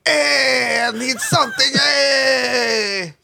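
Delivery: Anakin whiny shout. Retold or imitated. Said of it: "start talking like that".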